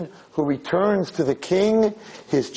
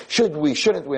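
lightly imitated indecisive girl; a hint of a dithering girl; mock girlish wavering; girl thing. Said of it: "She starts the whole girl thing".

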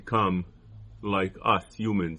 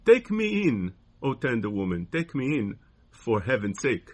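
pleading snake. Acted. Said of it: "sighed the snake".

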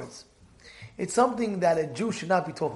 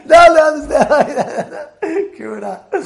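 laughing; 7 semitones higher, 10 dB louder, slower than usual. Real, not acted. Laughing through the joke.

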